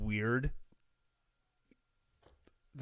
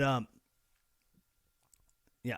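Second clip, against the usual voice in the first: ordinary talk, nothing marked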